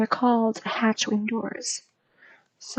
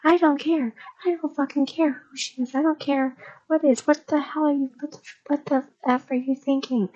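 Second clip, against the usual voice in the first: a higher-pitched, lightly voiced furious rant; livid mom; 3 semitones higher than usual. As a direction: rant at your kid, a touch of retold fury. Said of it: "this lady's still, like, livid".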